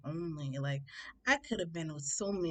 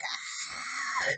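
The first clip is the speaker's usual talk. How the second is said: crying scream. Retold or imitated. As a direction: act out a bawling shriek, held back. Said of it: "I'm screaming at the top of my lungs".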